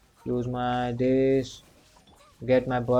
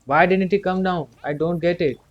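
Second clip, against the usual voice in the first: exasperated, higher and louder; frustrated outburst; 5 semitones higher, 5 dB louder than usual. Real, not acted. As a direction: throw up your hands at the boss. Frustrated at fleeing boss.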